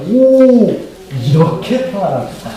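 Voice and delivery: exclamation of blissful relief; demonstrated wonder. Shown as a demonstration. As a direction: marvel aloud to show the congregation. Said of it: "감탄하세요".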